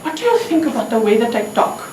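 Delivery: put-on a measured question in an Indian accent; acted Indian accent, unhurried. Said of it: "there is an accent".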